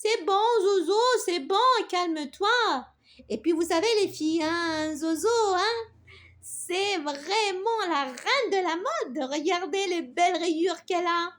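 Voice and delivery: calm her down, then tease fondly; amused butterfly. Acted. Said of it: "ajouta en riant". (papillon amusé, taquin et apaisant)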